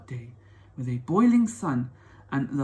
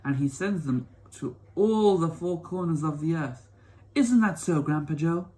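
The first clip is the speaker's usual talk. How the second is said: put-on old grandma voice; 4 dB louder than usual. Grandma Josephine agrees with Grandpa.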